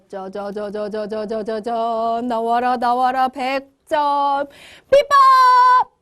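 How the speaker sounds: stuttered drumroll building to a loud, drawn-out shout; drumroll reveal. Pretend. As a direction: build suspense, then belt out the last word. (두구두구 뜸 들이다 크게 외치기)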